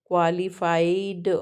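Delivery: क्वालिफाइड stretched out syllable by syllable; syllable demonstration. Shown as a demonstration. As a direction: draw out each vowel of क्वालिफाइड for counting. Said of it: "ऐसे count कर सकते हो". (क्वालिफाइड को खींचकर, हर स्वर अलग सुनाते हुए)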